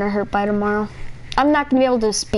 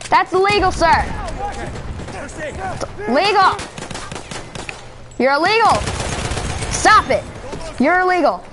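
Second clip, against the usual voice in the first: lightly voiced bossy cop lecturing; mock cop; 4 semitones higher than usual. Roleplaying cop scolding a player, a hint higher. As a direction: scold them like a petty officer.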